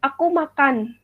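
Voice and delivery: "makan" kept level, a plain statement; flat statement intonation. Shown as a demonstration. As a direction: state "Aku makan" evenly, no rise on "makan". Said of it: "menggunakan intonasi datar".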